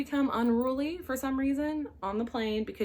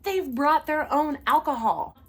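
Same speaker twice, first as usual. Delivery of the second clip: alarmed realization; 5 semitones higher, 7 dB louder, slower than usual. Retold or imitated. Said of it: "And I was like".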